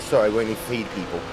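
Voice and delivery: bad German accent, low, quiet and quick. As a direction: do a terrible German barman. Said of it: "Worst German accent ever".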